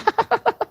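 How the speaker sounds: very high cackle of derision; put-on jeering laugh, high up; mocking laughter. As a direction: laugh at the fool in a high squeal. Mockers laugh at Noah.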